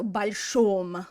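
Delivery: большом drawn out with a full, stressed "om" on the last syllable; большом, long round o in the ending. Shown as a demonstration. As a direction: lean slowly on the final syllable of большом. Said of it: "pronounce it as an om if it's a stressed ending".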